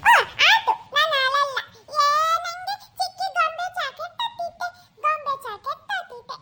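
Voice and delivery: put-on quick, childish delight; happy. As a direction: chirp it like a child promised a treat. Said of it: "ತುಂಬಾ ಖುಷಿ ಆಗೈತಲ್ಲ". (ಖುಷಿಯಿಂದ)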